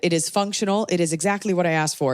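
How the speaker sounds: flat robotic reviewer voice. Retold or imitated. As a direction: read it like a robot, stiff and even. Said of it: "you sound like a robot".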